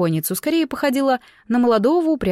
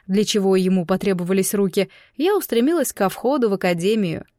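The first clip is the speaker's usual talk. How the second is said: usual speaking voice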